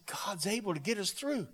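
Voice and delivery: whispered assurance of faith; hushed reassurance. Retold or imitated. Preacher leaning over Jed, whispering reassurance. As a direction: drop to a soft whisper to comfort him.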